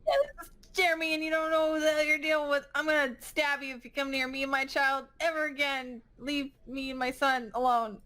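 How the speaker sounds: high, rushed, indignant threat; threatening mother. Acted.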